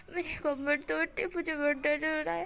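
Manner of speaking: a hint of a sulky whine; whiny complaint. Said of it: "wing इस तरह से बोल रहा था".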